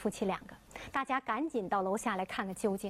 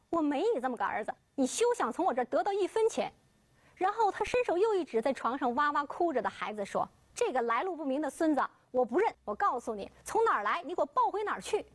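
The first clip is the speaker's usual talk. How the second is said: furious father; 3 semitones higher than usual. Acted. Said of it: "李全福是气得脸色铁青".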